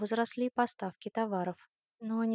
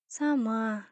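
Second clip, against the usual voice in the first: yawning; 4 dB louder than usual. Acted. Sleepy woman says she will walk herself, yawning. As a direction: answer as if half yawning. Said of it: "зевая".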